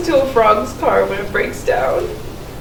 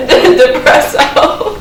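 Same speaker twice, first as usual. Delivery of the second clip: laugh; 4 semitones higher, slower than usual. Real, not acted. Punchline through laughter.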